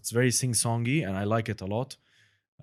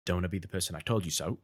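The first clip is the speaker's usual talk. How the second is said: Michael Caine impression; 4 semitones lower, faster than usual. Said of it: "one section which he says".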